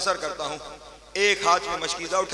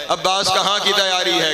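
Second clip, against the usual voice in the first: louder weighty repeat; 5 dB louder than usual. Shown as a demonstration. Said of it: "पहाड़ जितना जुमला है".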